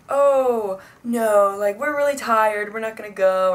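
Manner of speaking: overdone apologetic brush-off; mock reluctant excuse. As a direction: imitate friends begging off with fake regret. Friends making a false excuse.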